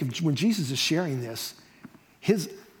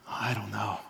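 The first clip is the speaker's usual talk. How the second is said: low, soft, doubtful aside; acted reluctance, trailing into near silence; quietly unsure, imitating a fellow preacher; reluctant; 9 semitones lower, 9 dB quieter than usual. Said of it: "He says".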